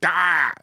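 retold recoil from harsh liquor; whiskey-burn cry. Acting out drinking straight whiskey, burning cry.

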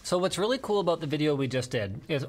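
talking while chewing; words round a bite of food; mouth full. Real, not acted. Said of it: "oh, sorry, I'm eating again".

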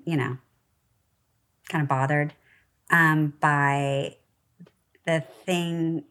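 lightly put-on valley girl upspeak. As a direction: read it like a valley girl with up talk. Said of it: "Why do I sound like a valley girl?".

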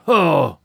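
sudden loud fierce laugh. Acted. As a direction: bark out one wild laugh. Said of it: "so fiercely did Onak laugh".

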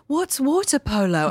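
high-pitched, baffled newcomer voice; high mock-innocent question; naive newcomer. Acting out her naive British younger self.

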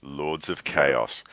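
slow low monster growl on "Lords of Chaos"; Cookie Monster voice. Acted. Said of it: "in the Cookie Monster voice".

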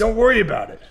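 laughing it off. Real, not acted. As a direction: chuckle through it. Laughs while brushing off.

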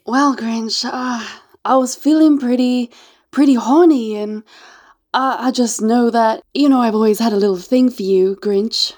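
coy seductress in a put-on accent; lightly acted flirtatious confession; Martha May. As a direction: play the hesitant, flirty visitor. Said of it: "Martha May".

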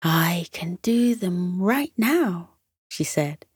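soft unvoiced whisper. Kira offering ribbons to her friends, whispered. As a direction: whisper it like a little secret.

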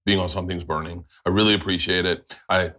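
sniffly runny nose from hot sauce; talking through a runny nose. Real, not acted. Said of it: "My nose is running".

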